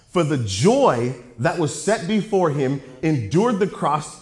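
slow, deliberate verse reading; measured pulpit reading; scripture reading. Real, not acted. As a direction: read the verse out, weighing each phrase. Reads a scripture verse to congregation.

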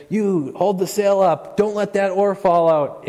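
high, loud panicked orders across a storm; frantic sailor shouting at his crewmate; acted yelling. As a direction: bark it over the crashing waves. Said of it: "they're maybe yelling at each other".

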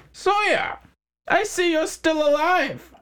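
high, slow mocking greeting; smug crime boss. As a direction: drawl it out like a gloating mobster. McHines greets Sawyer.

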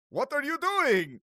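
high, loud indignant vampire demand. Acted. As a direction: challenge the intruders as an outraged vampire. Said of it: "The vampire says".

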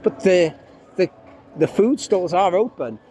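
muffled behind a mask; talking through a mask; through a face mask. Real, not acted. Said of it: "I'm speaking through a mask still".

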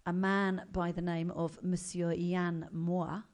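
slow, mock French accent on the name; a lightly done French accent. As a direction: put on a French accent for Monsieur Yann Moix. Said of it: "Do you like my French accent?".

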